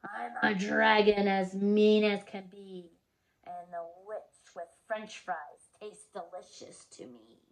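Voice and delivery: loud, slow menacing dragon. Acted. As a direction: boom it out like a hungry dragon. Dragon speaks in story.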